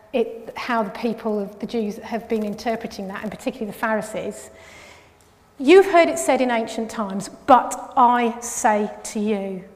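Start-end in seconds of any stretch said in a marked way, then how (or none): 5.6-9.6 emphatic quote, slowing right down on "but I say to you"; voice of authority. Retold or imitated. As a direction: quote it with authority, louder at first, then slow and deliberate. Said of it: "as the voice of authority".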